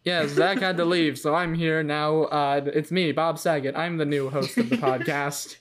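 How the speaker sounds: hammy carnival barker voice. Pretend. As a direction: pitch it like a fairground showman. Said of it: "your Bob Saget is kind of a carnival barker".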